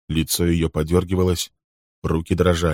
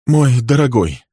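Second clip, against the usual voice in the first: worried; 6 semitones higher, 6 dB louder than usual. Acted. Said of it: "Голос Фрэнка был встревоженным".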